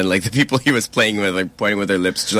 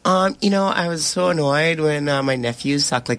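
imitated caller; 3 semitones higher than usual. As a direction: mimic the caller's own way of talking, lightly. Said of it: "there's an impression afterwards".

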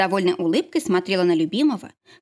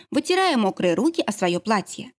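usual speaking voice

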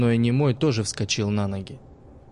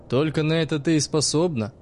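sarcastic; 5 semitones higher than usual. Acted. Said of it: "произнёс саркастически помнящий".

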